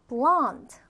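"blonde." as one isolated word, falling; model pronunciation. Shown as a demonstration. Teacher models blonde for the class, careful falling pronunciation. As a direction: say "blonde." carefully for learners to copy. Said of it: "발음해볼까요".

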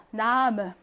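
나무 with a weak schwa ending; unstressed, reduced ending on 나무; weakened vowel. Shown as a demonstration. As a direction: let the last vowel of 나무 relax into 어. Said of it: "어처럼 이렇게 발음해요".

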